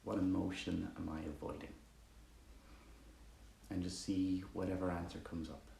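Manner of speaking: calm meditation guide with long pauses; guided meditation. Acted. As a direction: ease listeners quietly into the breath, leaving space between phrases.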